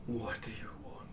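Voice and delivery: hushed eerie horse voice; whispered creature voice. Acted. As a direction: breathe it like a summoned steed.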